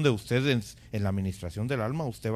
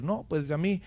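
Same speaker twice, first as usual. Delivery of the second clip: lightly voiced dismissive churchgoer, higher and louder; a hint of a self-satisfied believer, pitched up; mock complacent believer; 5 semitones higher, 6 dB louder than usual. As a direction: imitate someone brushing off the need to learn. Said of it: "No se conforme con nada más decir".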